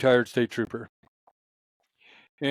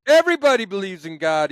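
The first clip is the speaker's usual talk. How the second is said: put-on Southern accent; 6 semitones higher, 5 dB louder than usual. Retired trooper declaring everyone believes in God, imitated Southern accent. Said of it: "do my Southern accent that he does".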